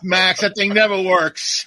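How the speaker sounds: slow, lightly voiced boss; sitcom spy chief. Answering the agent about the cone, slow mock chief. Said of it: "was Get Smart".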